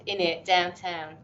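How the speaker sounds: slow sample of an East End accent. Shown as a demonstration. Professor shows interviewer local slang, East End accent. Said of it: "it's just like East End".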